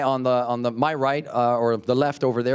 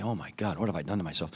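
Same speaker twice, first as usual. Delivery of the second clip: mock groan; 7 semitones lower, 10 dB quieter, much faster than usual. Mock regret after overeating.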